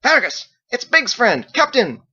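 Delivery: high, loud shout to another room; shouting down the hall. A narrator's reading. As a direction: call out, fists on hips. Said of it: "shouted down the hall".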